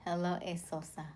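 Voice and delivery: light British-accented greeting. Real, not acted. Streamer greeting a viewer by name, slight British accent. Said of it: "slipped on to her British accent".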